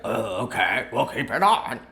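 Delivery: grudging put-on presidential voice; bad president impression. President answering the TikTok CEO's plea, badly imitated. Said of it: "It's a bad impression".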